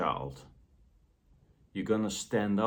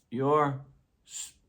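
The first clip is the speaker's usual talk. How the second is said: harsh critical voice; 5 semitones higher, 3 dB louder than usual. Retold or imitated. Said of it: "the harsh critical voice".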